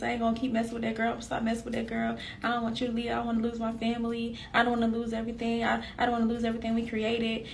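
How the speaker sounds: soft, understated imitation of pleading; retold tearful begging. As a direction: plead quietly, running on without a break. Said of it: "and he crying".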